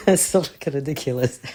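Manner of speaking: real high burst of laughter, loud; helpless giggle carrying into speech; laughing. Real, not acted. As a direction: laugh through the words, tickled at yourself. Laughing at own overflowing feelings.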